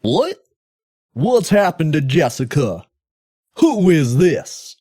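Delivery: high, shocked hero voice, slowing on the last line; hammy alarmed demand; the mayor shocked about his daughter; alarmed Mike Hagar. Acted. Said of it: "my Mike Hagar voice".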